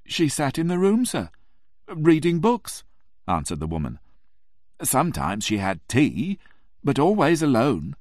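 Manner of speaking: landlady insisting she always came alone; firm landlady. Acted. Landlady describes the lady's visits.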